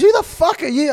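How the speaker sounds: loud, high retold challenge; mock angry challenge. Retelling the row over being famous, angry challenge. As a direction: throw it out loudly, acting outraged.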